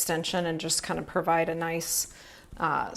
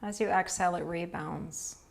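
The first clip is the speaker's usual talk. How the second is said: calm, even yoga-nidra guidance with long pauses; unhurried phrases, leaving space to breathe; guided relaxation. Real, not acted. Yoga teacher guiding students through restful breathing, calm guided relaxation. Leads restorative breathing practice.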